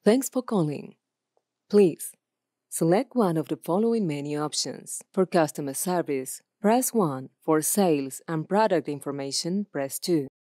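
phone menu read. Shown as a demonstration. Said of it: "Answering machine".

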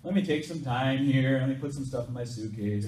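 loud, casual put-off; mock easygoing procrastinator brushing it off; dawdling. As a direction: play someone stalling, in no rush. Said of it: "It's like he poked around".

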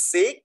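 "six" with a long final s; hissed ending. Shown as a demonstration. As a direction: let the end of "six" hiss out. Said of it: "มีเสียง". (ออกเสียง "six" ลากเสียง ส ท้ายคำ)

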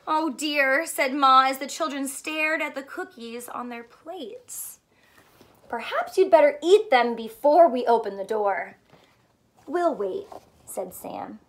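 lively picture book reading; story read to children. Acted. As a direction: read it like storytime for little ones. Reads picture book aloud.

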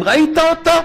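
high, eager voicing of the elder rabbi; old sage asking. Chafetz Chaim asks the young rabbi, high eager question. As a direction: ask it like the revered sage, leaning in.

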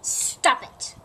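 loud, abrupt storybook bark; sudden forceful order; barked command. A narrator's reading. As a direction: bark it out like a fed-up dog. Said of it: "barked Buster".

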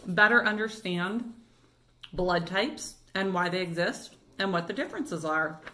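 talking through a mouthful of donut; mouth full. Real, not acted. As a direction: chew and talk at once. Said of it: "Now I'm gonna talk with my mouth full".

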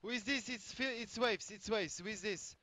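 anxious pleading. Real, not acted. Calling out to avoid being shot.

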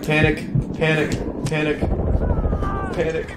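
mild, repeated panic chant; panicking. Real, not acted. Gamer under fire, mildly panicking.

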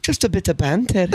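light Scottish accent; Scottish woman. Shown as a demonstration. Repeating her line when a friend asks, Scottish accent. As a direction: toss it off in a put-on Scottish woman's voice. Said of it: "do the Scottish chick".

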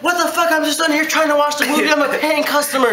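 high, indignant mock customer voice; attitude. Customer defending her food, mock indignant. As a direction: put on a sassy, entitled customer. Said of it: "She had an attitude".

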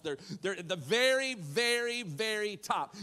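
"very, very, very top" rising in pitch; emphatic very. Real, not acted. Preacher stressing how full the jars were.

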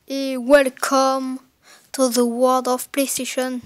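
slow, drawn-out English in a thick French accent. Shown as a demonstration. Reading the box's English line aloud to viewers, in a French accent. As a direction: stretch out "welcome" with a proud French accent. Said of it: "avec mon accent très, très bien en anglais".

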